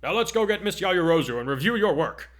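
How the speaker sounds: loud, high proclamation; declaring. A narrator's reading. Teacher rallying students to review the work, loud declaration. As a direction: announce it heartily. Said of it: "before declaring".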